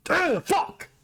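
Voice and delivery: high-pitched burst of real frustration; groan, then curse in exasperation; exasperated groan. Real, not acted. Fan gutted for his fighter, exasperated outburst. Venting disappointment over ruined fight.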